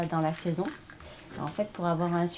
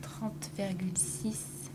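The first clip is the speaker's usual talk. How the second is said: slow whispered number; whispering; 5 dB quieter than usual. Real, not acted. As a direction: breathe the figure out softly. Reading out result quietly.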